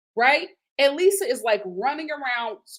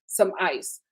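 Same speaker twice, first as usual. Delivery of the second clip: mock dismissive husband; 3 semitones lower than usual. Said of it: "he's just like".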